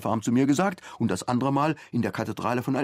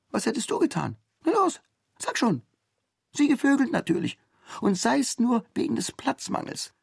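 higher, brash and mocking; cheeky male comrade; 14 semitones higher than usual. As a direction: needle him with crude bravado. Voices the accused comrade. (frecher Genosse, höher und spöttisch)

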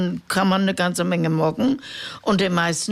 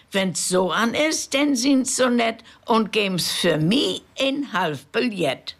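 higher, mild mock scolding; a hint of a cross old woman; old woman grumbling at the railway rules, higher voice; 5 semitones higher than usual. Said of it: "schimpft nu der Olsch".

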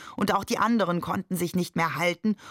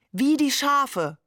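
much higher, slow, giggling; hoarse giggling call; 8 semitones higher, 4 dB louder, slower than usual. A narrator's reading. Hamid joining the mock sermon, giggling high and slow. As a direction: cry it out while giggling. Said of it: "rief Hamid heiser kichernd".

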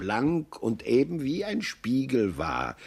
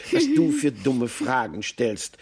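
wondering doe; 3 dB louder than usual. Acted. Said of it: "wunderte sich Karla".

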